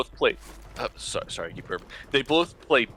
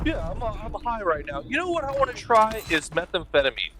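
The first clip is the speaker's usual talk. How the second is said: stoner voice; 8 semitones higher than usual. Retold or imitated. Mocking an imagined stoner.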